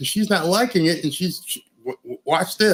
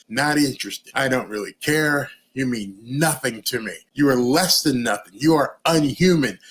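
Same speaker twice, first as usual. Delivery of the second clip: cold dismissive brush-off; 3 semitones lower than usual. Retold or imitated. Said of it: "as Jack Posobiec would say".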